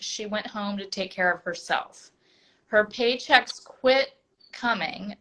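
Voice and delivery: measured, prepared read-aloud; reading a bio aloud. Real, not acted. Host introduces her guest by reading her bio, reading aloud. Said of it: "I'm going to read your bio".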